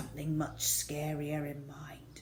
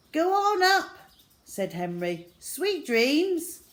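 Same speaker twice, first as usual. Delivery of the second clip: sly offer; 10 semitones higher, 5 dB louder than usual. Acted. Henry sly to brother.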